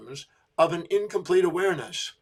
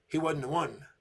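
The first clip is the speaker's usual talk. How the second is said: quiet realization; 6 dB quieter than usual. Retold or imitated. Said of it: "she looked at me and she goes".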